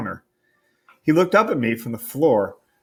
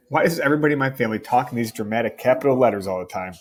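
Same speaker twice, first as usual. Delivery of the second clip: exasperated rant; faster than usual. Acted. Steven exasperated at his family.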